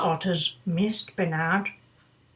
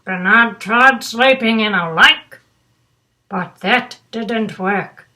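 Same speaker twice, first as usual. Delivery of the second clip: put-on reading to children; 4 dB louder than usual. A narrator's reading. Reads picture book aloud.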